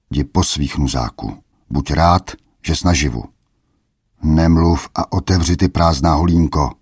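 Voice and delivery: a lightly voiced rough guard, scornful; a hint of a mocking sentry; gruff guard. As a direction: shoo the beggar off from the gate. Guard turns the boy away.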